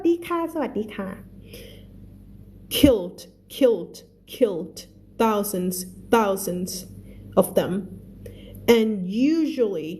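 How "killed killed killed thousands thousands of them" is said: reads each English word slowly and clearly for learners; slow, careful read-aloud for the class; slow story reading. Shown as a demonstration. Teacher reads the book slowly to her students, careful read-aloud.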